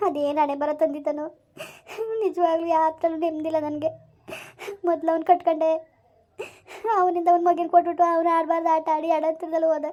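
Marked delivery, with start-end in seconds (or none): 2.2-5.7 crying. Acted. Daughter-in-law weeping over her marriage. 7.0-9.9 crying. Acted. Daughter-in-law weeping over her marriage.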